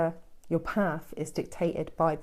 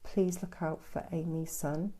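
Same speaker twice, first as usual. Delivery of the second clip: soft, quieter prayer to an archangel; little prayer; 5 dB quieter than usual. Real, not acted. Medium prays for a viewer's son, soft prayer. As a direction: pray gently for her son. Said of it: "I'll do a little prayer now".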